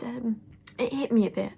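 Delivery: fluisterend van verdriet; zacht, bijna stemloos gefluister; sad whisper. Real, not acted. Grief for her dog.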